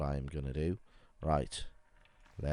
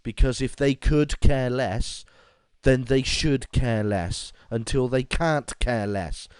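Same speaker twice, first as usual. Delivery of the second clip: louder, higher exasperated rant; 5 semitones higher, 8 dB louder than usual. Real, not acted. Gamer ranting about Americans' grammar, loud exasperated. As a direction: rant about could care less, loud and slow in places. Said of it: "Rant over".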